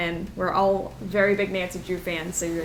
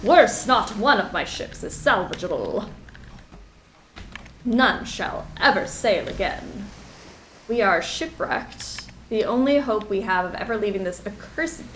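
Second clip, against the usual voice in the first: dramatic reading. Acted. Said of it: "I'm going to read it like this from now on".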